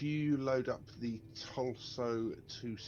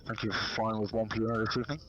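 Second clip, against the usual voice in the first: captain's cabin announcement through cupped hand; muffled pilot announcement, breathy; pilot over the radio. Pretend.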